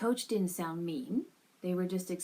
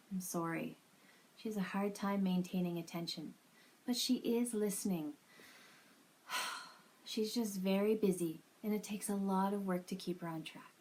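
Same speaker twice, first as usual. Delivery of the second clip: bad acting. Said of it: "Tired parent".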